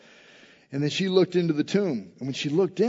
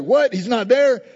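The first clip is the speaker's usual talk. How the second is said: high, loud startled outburst; astonished; 7 semitones higher, 7 dB louder than usual. Retold or imitated. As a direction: act out Peter's shocked disbelief. Peter reacts to empty tomb.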